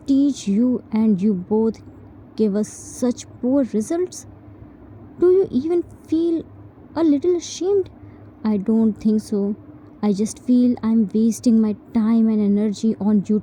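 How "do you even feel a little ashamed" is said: high indignant reproach; angry parent. Acted. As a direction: demand it, rising with indignation. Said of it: "Angrily left".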